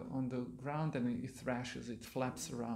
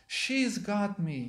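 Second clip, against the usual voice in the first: retold shout; 5 semitones higher, slower than usual. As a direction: call it out slow and raised, only half a real yell. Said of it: "His voice went up to a shout".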